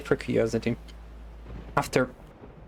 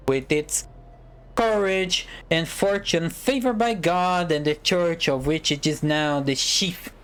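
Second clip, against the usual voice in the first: speech voice. Acted. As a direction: read it like an orator addressing a prince. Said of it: "let me use a better voice. Prepare for a speech".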